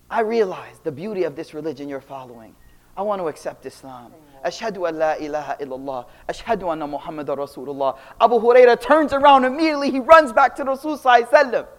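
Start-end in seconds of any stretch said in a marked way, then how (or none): 0.1-8.0 low, soft, sincere voice; hushed, reverent retelling; retold solemn declaration. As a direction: quietly voice a convert's testimony. Mother solemnly declares her new faith.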